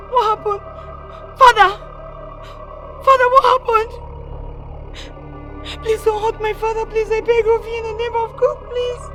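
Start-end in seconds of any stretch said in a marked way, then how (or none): 0.1-3.9 panicked. Acted. Learns her father is held.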